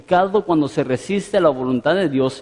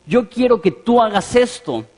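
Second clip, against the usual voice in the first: higher-pitched, mildly imperious mock demand; bossy demand to God; 6 semitones higher than usual. Preacher mimicking a believer ordering God about, bossy. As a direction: imitate someone giving God orders. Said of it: "tu tono de voz cambia".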